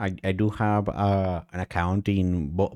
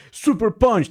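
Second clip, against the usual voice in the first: announced move name; 11 semitones higher, 4 dB louder than usual. Retold or imitated. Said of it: "they don't say, like".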